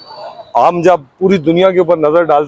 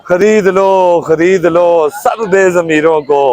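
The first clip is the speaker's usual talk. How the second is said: measured, declaimed Urdu verse with falling line ends; rhythmic protest poetry; poem recitation. Acted. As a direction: recite it line by line, pausing after each.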